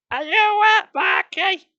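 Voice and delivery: very high, loud sing-song mother; high sing-song mum voice; mum's baby talk. Acted. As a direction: coo at a baby.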